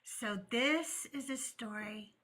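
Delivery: slow hushed preacher reading scripture; solemn Sunday school teacher, drawn out. Acted. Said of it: "I was using my Sunday school teacher voice".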